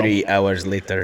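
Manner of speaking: slow, low announcer imitation; SpongeBob time card. Co-host joking about a delayed fix, slow mock announcer. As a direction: do the slow cartoon time-card line, amused. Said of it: "I'll put the SpongeBob".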